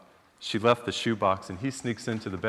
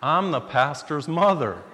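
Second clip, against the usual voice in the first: put-on elderly woman, triumphant; 3 semitones higher, 4 dB louder, slower than usual. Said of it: "she was elderly".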